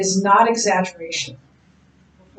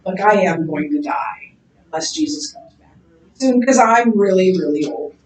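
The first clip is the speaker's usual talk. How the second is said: lightly voiced old John; 3 semitones lower than usual. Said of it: "he wants to make sure".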